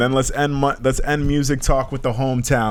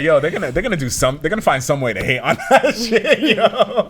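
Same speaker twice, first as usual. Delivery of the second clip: laughing; 5 semitones higher than usual. Retold or imitated. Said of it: "I heard it and I was like".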